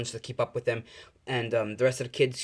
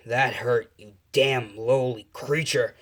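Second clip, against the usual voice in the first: slow, darker, contemptuous threat; menacing threat; 3 dB louder, slower than usual. Acted. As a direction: spit it slowly at the monster. Izuku turns dark, threatens Nomu.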